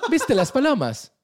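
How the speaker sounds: high, loud, slow hammed-up Italian accent; mock Italian accent. Italian man asks about pigeons, hammed-up Italian accent. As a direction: ham up the Italian local, laughing through it. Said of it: "Este es mi acento italiano".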